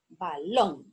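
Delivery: "balón" split low and deliberate, ba... LÓN; syllables, stress on LÓN. Shown as a demonstration. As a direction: separate ba from a longer LÓN in "balón". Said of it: "lleva la sílaba tónica en lon".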